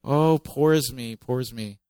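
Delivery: milk the self-pity; whining complaint. Retold or imitated. The Israelites complaining about Egypt's food, mock whine. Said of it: "they complain".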